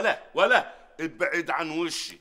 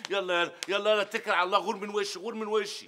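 angry dismissal; 3 semitones higher than usual. Acted. Boss throwing him out.

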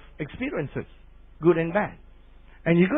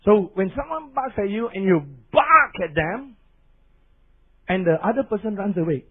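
ordinary talk

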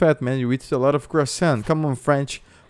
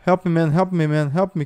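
raised-pitch repeated pleas; urgent pleading; 4 semitones higher, 4 dB louder than usual. Pretend. Player begs another player to kill zombie, urgent pleading. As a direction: beg frantically for backup.

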